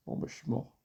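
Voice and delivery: unvoiced defeated murmur; resigned whisper. Real, not acted. Resigned after losing.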